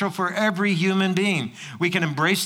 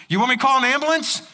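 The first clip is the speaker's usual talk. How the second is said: concerned passerby; 7 semitones higher, 3 dB louder, much faster than usual. Retold or imitated. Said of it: "he says".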